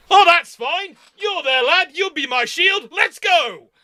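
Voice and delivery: high, hammed-up brushing off of danger; cheerfully reckless command. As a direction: shrug off the wound and charge. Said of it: "it's a case of".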